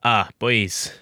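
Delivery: put-on lightly Scottish-accented patriarch; Charles Dance doing Scottish. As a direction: congratulate your boys with a Scottish lilt. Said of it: "it's Charles Dance doing a Scottish accent".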